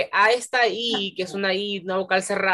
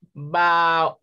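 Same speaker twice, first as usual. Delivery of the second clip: BAÚLES drawn out as ba-ú-les; syllable by syllable; 2 semitones lower than usual. Shown as a demonstration. Teacher showing pupils a hiatus, syllable by syllable. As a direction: break BAÚLES into slow separate syllables. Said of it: "sepáralas en sílabas".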